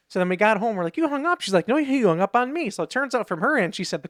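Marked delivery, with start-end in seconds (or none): 1.0-1.4 mock accusation. Retold squabble over the hang-up. 1.7-2.7 mock indignant retort. She throws accusation back.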